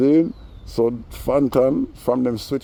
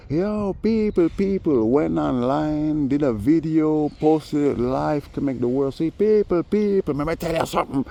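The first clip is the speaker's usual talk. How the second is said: hammed-up imitation of Fantan's live rant; high-pitched mocking address to his audience; imitating Fantan; 7 semitones higher than usual. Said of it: "That's what he was saying".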